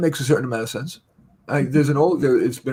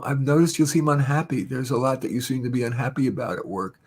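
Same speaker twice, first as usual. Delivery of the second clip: gentle concerned. Shown as a demonstration. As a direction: ease into it kindly. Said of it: "you need to couch".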